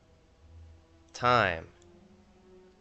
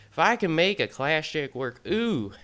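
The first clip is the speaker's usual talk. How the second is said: put-on higher, punchier Southern accent; 5 semitones higher than usual. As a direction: lean into the Southern boast. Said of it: "I hate this accent".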